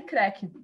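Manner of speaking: short sharp imitated crack noise, creque. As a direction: say creque like a snapping sound. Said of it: "só escutei um creque". (imitando um estalo, creque)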